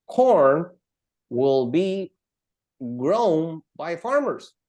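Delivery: slow, drawn-out words with pauses; slow example reading. Shown as a demonstration. Teacher forming passive sentences for the class, slowly. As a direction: read it out slowly, piece by piece.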